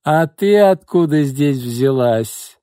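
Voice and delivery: slow, loud, high mock shock; shocked exclamation. A narrator's reading. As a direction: feign outrage at the intruder. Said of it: "потрясённо воскликнула Кочергина".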